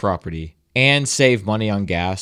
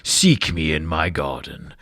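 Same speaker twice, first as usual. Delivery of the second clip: Elohim; 8 semitones lower, slower than usual. Acted. Mysterious voice calling to a newly woken android, low and slow godlike intoning. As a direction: intone it slowly and deeply, like an unseen deity. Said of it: "you just hear this voice saying".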